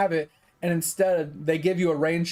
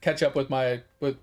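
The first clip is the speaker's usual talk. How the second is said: low, unbothered self-quote; easygoing acceptance; 4 semitones lower than usual. Retold or imitated. Customer settling for ketchup with nuggets, casually fine with it. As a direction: shrug it off casually, a little lower. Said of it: "And I was fine with it".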